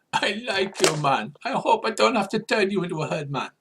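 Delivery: amused, high-pitched creature; Morricanth voice. Acted. Morricanth amused by the traveller, high put-on voice. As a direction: lift the voice high in character. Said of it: "what accent I'm using for the, uh, Morricanth".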